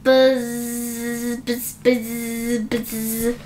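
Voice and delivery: soft low buzzing, fading away; buzzing practice. A narrator's reading. Bees practise buzzing, soft fading buzz. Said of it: "buzzing practice".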